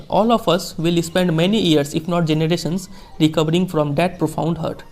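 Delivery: slow, measured reading of a famous speech; formal speech reading. Acted. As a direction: read each phrase slowly, like quoting a statesman. Teacher reads Mandela speech slowly. (धीमा, गंभीर भाषण पाठ)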